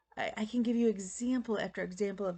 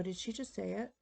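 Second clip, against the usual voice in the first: much softer, stunned near-whisper; tearful disbelief; 7 dB quieter than usual. Retold or imitated. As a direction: ask it softly, overcome with tears. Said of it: "I started crying".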